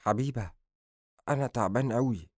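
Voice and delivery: weak, weary effort to talk; softened, labored words of an exhausted man; speaking with difficulty. Acted. Adham tells Habiba he is very tired, speaking with difficulty. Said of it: "سمعته يتكلم بصعوبة".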